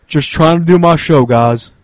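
lightly voiced streamer catchphrase; J J Stoner voice. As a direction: read it like J J Stoner would. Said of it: "in the J J Stoner voice".

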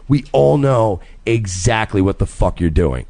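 retold warning, slow and deliberate; slow pointed call-out. Husband retelling his warning to the flirt, slow and pointed. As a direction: spell it out slowly, every word weighted. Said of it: "And I said it in that tone".

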